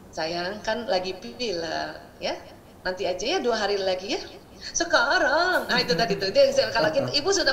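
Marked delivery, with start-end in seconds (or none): 0.1-4.2 calm soothing mother. Retold or imitated. Calm mother gently putting off the ice cream, soothing. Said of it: "kita tetap musyawarah". 4.7-5.7 louder, higher insistent demand; child demanding. Retold or imitated. Stubborn child demanding ice cream now, loud. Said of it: "tambah teriak dia".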